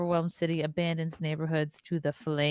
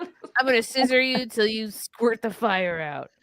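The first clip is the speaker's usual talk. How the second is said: lesbian firefighter voice; 3 semitones higher than usual. Pretend. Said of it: "let's hear y'all's best lesbian firefighter voices".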